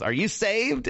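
imitating the neighbor lady. Neighbor lady pops her head up.

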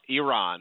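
Iran said ee-RAHN; Iran with E sound. Shown as a demonstration. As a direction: start Iran with a clear EE, then RAHN. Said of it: "The E, the E sounding".

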